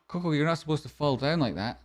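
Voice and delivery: gasp, then gentle high scolding; startled coo at the dog; mock alarm at dog. Real, not acted.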